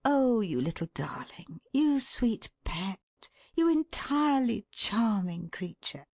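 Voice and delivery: put-on whispered then high baby talk; cooing endearments. Shown as a demonstration. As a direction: coo over a baby. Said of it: "Try this experiment. Say".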